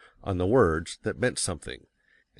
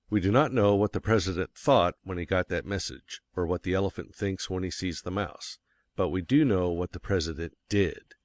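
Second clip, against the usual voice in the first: "thought" and "did" set apart from the words around them; stress on thought and did. Shown as a demonstration. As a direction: make "thought" and "did" stand out in contrast. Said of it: "immediately catch the reader's attention, because they are different from the others".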